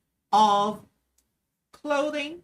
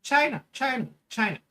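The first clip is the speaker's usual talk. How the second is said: Trump impression; 2 semitones higher, 3 dB louder than usual. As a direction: lean into a mild Trump-like repeat of China. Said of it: "I sound like fucking Trump".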